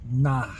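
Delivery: NAH with an open, breathed-out ending; nah sound. Shown as a demonstration. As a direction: say "nah" with no F at the end. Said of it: "pronounces the Gayatri mantra with an nah sound".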